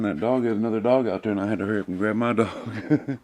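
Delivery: fast, breathless and laughing; panting while explaining the rush; gasping for air. Real, not acted. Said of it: "Sorry, I'm out of breath".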